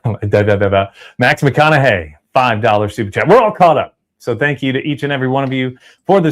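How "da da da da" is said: da da da babble; mock babbling. Real, not acted. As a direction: babble nonsense syllables. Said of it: "I sound like".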